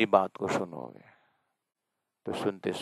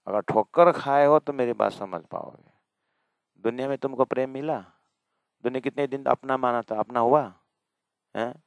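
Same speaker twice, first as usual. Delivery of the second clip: loud, higher, pressing rebuke; rising sermon fervor; 4 semitones higher, 7 dB louder than usual. Real, not acted. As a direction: scold the faithful, voice climbing. Preacher scolding the listeners. (ऊँची आवाज़ में फटकार)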